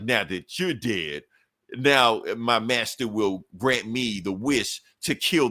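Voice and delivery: slow, deliberate villain threat; slow menacing villain. Retold or imitated. Reader voicing Kung Fu Hulk threatening She-Hulk, slow menace. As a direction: draw out each word like a gloating villain.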